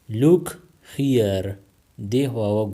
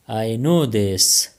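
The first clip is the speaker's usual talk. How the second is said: each word drawn out slowly for learners; very slow, careful; 3 dB louder, much slower than usual. Shown as a demonstration. Teacher showing Pashto speakers the phrase, slow and deliberate. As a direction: say it slowly so they can follow. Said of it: "teacher repeats the phrase twice".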